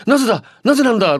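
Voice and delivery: retelling his own confused muttering; puzzled. Retold or imitated. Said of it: "と思い".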